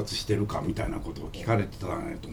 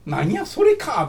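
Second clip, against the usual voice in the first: mock letdown; 10 semitones higher, 4 dB louder, much slower than usual. Imagined disappointed listener reaction.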